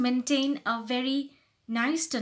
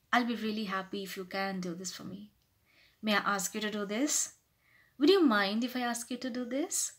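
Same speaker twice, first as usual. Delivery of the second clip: gentle, considerate request; humble, polite; 4 dB quieter than usual. Shown as a demonstration. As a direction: ask softly with a smile. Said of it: "just be little humble, little polite".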